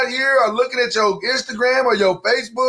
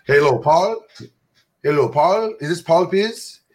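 lightly voiced mock white guy on the phone; a hint of a prim caller voice; slow polite caller, only lightly put on; 3 semitones lower than usual. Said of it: "What's that voice?".

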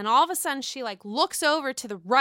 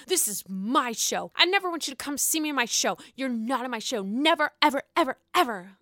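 put-on childish tantrum. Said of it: "acting like a six or seven-year-old".

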